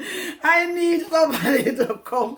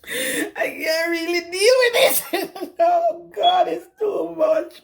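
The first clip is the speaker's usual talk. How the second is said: overwhelmed laugh-cry; 4 semitones higher than usual. Real, not acted. Overwhelmed confession to viewers.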